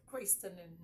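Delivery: christening with its T sounded; wrong christening with T. Shown as a demonstration. Teacher saying no to it, christening with sounded T. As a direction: mispronounce christening by voicing the T.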